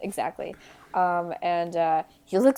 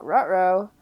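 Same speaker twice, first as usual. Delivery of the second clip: cartoon dog saying uh-oh; goofy dog-voiced ruh-roh; Scooby-Doo voice; 2 semitones lower than usual.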